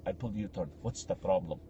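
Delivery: low, quiet mock menace; intimidating Russian immigrant. Driver brushing off the sister, imitated low intimidation. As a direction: imitate a man trying to intimidate, pitched right down. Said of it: "Russian immigrant trying to intimidate my sister".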